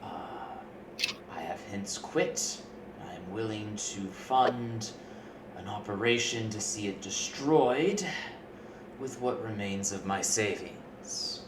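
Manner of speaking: measured, deliberate pitch to hired hands; lightly voiced formal client, with pauses; in-character quest patron. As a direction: speak as Arthur making a careful proposal.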